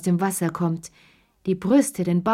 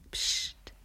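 a breathy, much softer "Psst"; hushing whisper; 11 dB quieter than usual. A narrator's reading. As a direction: hush them conspiratorially. Hushing, secret.

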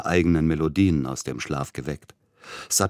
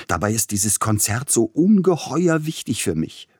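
a higher, louder plaintive wail; higher complaining lament; 6 semitones higher, 4 dB louder than usual. A narrator's reading. Pianist laments to Tchaikovsky, higher and plaintive. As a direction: whine it out as though everything hangs on it. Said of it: "klagte er".

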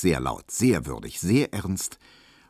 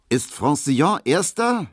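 high, loud, eager question; raised voice, pitched up; calling out; 9 semitones higher, 5 dB louder than usual. A narrator's reading. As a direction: call it out urgently. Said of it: "rief er dann".

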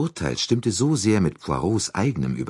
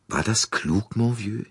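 besorgt; 6 semitones higher than usual. A narrator's reading. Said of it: "meinte Monsieur Bouc besorgt".

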